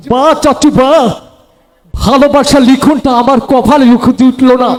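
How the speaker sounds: low, pleading lover's voice; lovesick film hero. Acted. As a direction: beg your uncle like a heartbroken hero. (নিচু গলায় প্রেমিকের আকুতি)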